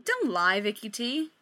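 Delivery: a hint of Gabe, teasing; lightly voiced Gabe. Gabe teasing Victoria after the laughter, lightly voiced. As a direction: tease her gently as Gabe. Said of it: "That's not Gabe's voice".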